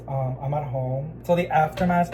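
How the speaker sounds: ordinary talk, nothing marked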